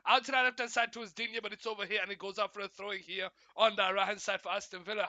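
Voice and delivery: brisk running match commentary; live play-by-play. Real, not acted. Streamer calling Spurs against Villa for viewers, live play-by-play. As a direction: call the action as it moves.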